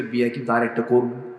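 understated mock threat; retold threat. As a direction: mimic an offhand threat in an everyday voice. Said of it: "হুমকি মারে".

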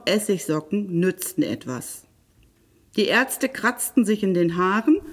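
lively, expressive fairy-tale narration; storyteller for children, varied pitch; story narration. A narrator's reading. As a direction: read a fairy tale aloud with animated emphasis.

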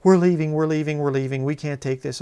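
mock tantrum, hurried and repetitive; half-hearted mock screaming; retold tantrum screaming. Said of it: "crying and screaming".

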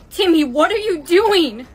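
loud, alarmed question with swooping pitch. Acted. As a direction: call him out in alarm. Alarmed at classmate during deadly game.

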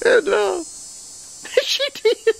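words through a real laugh. Real, not acted. Preacher telling how the waitress got saved, laughing. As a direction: let the laugh spill into the words.

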